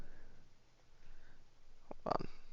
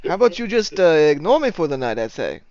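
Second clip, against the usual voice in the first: higher, lightly voiced barkeep; barkeep character; 7 semitones higher, 6 dB louder than usual. Barkeep replies to a disguised client, lightly voiced. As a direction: raise the pitch a little for the character.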